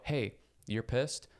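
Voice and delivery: measured self-calming, trailing off. Retold or imitated. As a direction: talk yourself out of anger like a patient parent. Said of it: "tried to go".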